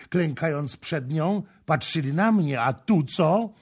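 high, aggrieved protest; high-pitched reproach with punched openings; indignant complaint. Acted. Rival woman's jealous complaint in story.

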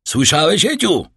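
sharp shout. A narrator's reading. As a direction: snap it out sternly at a child. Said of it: "krzyknął pan de Villefort tak ostro". (ostry krzyk)

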